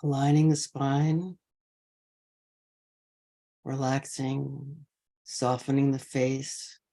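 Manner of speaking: measured meditation guidance with long pauses between phrases; guided meditation. Real, not acted. Teacher easing an online sangha into posture, guided meditation. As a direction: settle the group gently, leaving space after each phrase.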